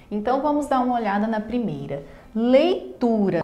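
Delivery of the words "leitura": slow "Leitura", broken after lei; syllable by syllable. Shown as a demonstration. Teacher showing students a word's syllables, syllable by syllable. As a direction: draw out "Leitura" in separated syllables. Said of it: "composta por três sílabas".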